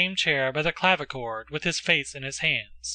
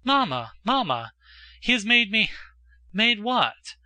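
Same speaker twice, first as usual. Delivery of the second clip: high, bursting, broken-off phrases; excited exclamation; 5 semitones higher than usual. A narrator's reading. Daughter running to her mother with news, excited exclamation. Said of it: "she exclaimed".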